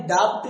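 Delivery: डाउट with an audible B; डाउट as "dau-b-t"; wrong pronunciation. Shown as a demonstration. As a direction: sound the silent "b" in डाउट before the T. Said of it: "डाउट नहीं".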